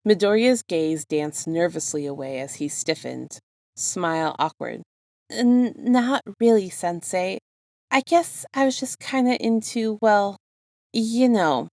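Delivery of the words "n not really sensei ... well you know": higher, hesitant and flustered; a student caught out, stammering to his teacher; nervous stammer. A narrator's reading. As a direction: stumble nervously through the excuse. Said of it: "He trailed off with a nervous laugh".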